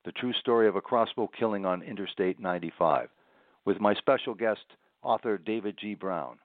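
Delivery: measured radio book-show intro read; scripted show introduction. Real, not acted. Host introduces a true-crime book and guest, scripted presenter read.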